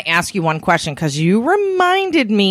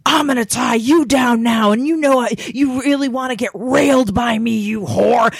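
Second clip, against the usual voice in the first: higher-pitched imitation of a pushy dom; mock domineering caller; 4 semitones higher than usual. Interviewer imitates a caller who turns the tables, mock domineering. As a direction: act out a caller turning bossy. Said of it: "turn the tables and be like".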